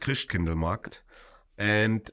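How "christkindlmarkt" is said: Christkindlmarkt in Tyrolean German; Tyrolean dialect. Shown as a demonstration. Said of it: "In Tirolerisch".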